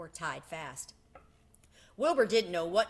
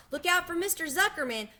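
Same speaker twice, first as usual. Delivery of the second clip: very high, loud gander yell; 9 semitones higher, 5 dB louder than usual. A narrator's reading. Gander calling Wilbur over, loud high yell. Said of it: "yelled the gander".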